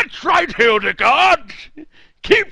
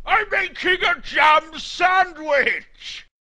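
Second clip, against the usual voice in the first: distant booming shout; 3 semitones higher, 5 dB quieter than usual. Acted. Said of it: "He is quite loud".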